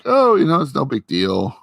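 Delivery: lightly voiced, airy reassurance; breezy Vision. Vision shrugging off the email, high breezy tone.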